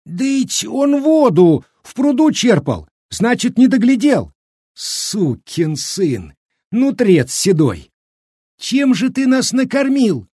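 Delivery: high peasant woman's furious shriek; squealing outrage. A narrator's reading. Village woman railing at the cook, squealing with anger. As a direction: shriek accusations, stretching out the insults. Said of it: "взвизгнула Аниська".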